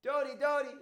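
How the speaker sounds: very loud, high-pitched calling shout; screaming out. Acted. Woman searching for Dodi in the fields, screaming out. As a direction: cry the name out to someone far away. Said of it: "someone was screaming out".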